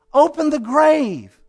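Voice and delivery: high, slow, loud command; commanding cry. Retold or imitated. Jesus at the tomb of his friend, commanding. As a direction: order it out slowly and forcefully.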